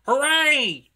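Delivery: high, loud drawn-out cheer; triumphant. A narrator's reading. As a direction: cheer it out jubilantly. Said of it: "he puffed triumphantly".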